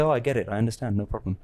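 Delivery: understanding. Retold or imitated. Answering someone in a spiritual meeting.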